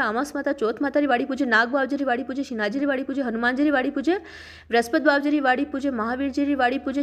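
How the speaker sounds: steady devotional recital with a repeated refrain; ritual verse recitation. Acted. Storyteller names every deity in the aadi-baadi verse, reciting. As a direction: recite in an even, rhythmic list.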